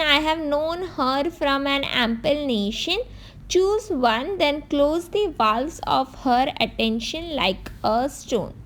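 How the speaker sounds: measured, slow recitation of the verse; slow poem reading. Acted. Teacher reading a Dickinson quote to students, slow and measured. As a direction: read the lines out slowly, like a poem. Reads poem lines in quiz.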